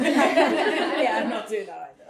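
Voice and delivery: laughing along, light and amused. Real, not acted. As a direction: chuckle through it. Laughing at the joke.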